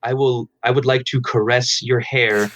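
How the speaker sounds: slow, droning monotone. Shown as a demonstration. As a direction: say it like a bored robot, dead flat. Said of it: "start talking in a monotone vo-, voice like".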